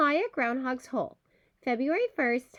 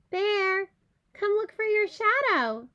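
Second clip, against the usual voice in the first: calling down; 7 semitones higher than usual. Acted. Calling down into the hole.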